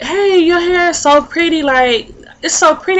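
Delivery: lightly acted sweet compliment; imitated admirer. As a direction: play someone admiring a friend's hair.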